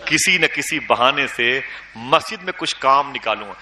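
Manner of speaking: کسی نہ کسی بہانے سے spoken slowly after a long pause; slow emphatic repeat. Shown as a demonstration. Preacher repeating his plan slowly to make it sink in. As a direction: draw out کسی نہ کسی for weight. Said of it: "repeated slowly after pause".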